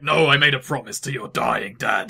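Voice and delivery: hammed-up cliche movie line; mock melodrama. Mocking a cliche deathbed-promise line, hammed-up. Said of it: "kind of cliche, like".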